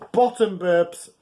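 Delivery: P=B; stress on bottom. Shown as a demonstration. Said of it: "Important difference there".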